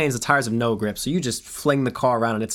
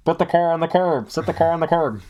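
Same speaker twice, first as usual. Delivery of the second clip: raised, commanding cop orders; retold loudspeaker yell; 5 semitones higher than usual. Cop ordering the driver to pull onto the curb, raised voice. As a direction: bark it like a cop on a megaphone. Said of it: "he yells over the loudspeaker".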